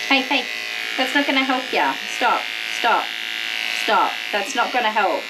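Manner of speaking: firm hey, hey, stop; firm scolding. Real, not acted. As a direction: tell the dog off sharply. Scolding the struggling dog.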